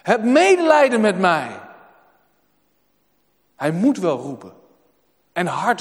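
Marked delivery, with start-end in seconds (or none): 0.0-1.6 louder, pleading cry for mercy; pleading call. Acted. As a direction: call out over the crowd, begging. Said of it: "Hij roept".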